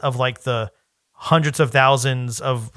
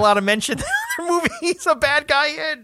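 excited; 13 semitones higher, faster than usual. Real, not acted. Excited joking outburst.

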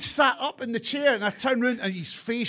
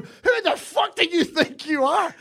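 higher, slow retold confrontation; mock anger; 10 semitones higher, slower than usual. Confronting the man in the car park, mock angry. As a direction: spell it out as a challenge. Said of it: "had words with him in the car park going".

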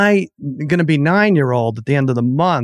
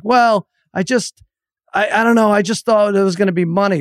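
put-on sheepish kid; 7 semitones higher than usual. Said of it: "He's like".

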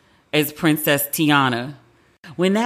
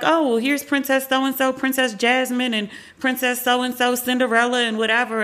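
mock a tour host, pitched up; imitating park staff; 5 semitones higher than usual. Voicing park staff listing princesses.

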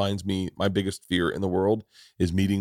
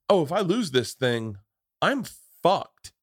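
higher-pitched dawning dread, acted out; retold panic; 5 semitones higher than usual. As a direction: relive the parent's terrified realization. Voices a terrified parent's realization.

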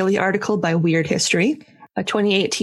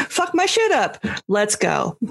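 hyped. Retold or imitated. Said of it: "if you're like".

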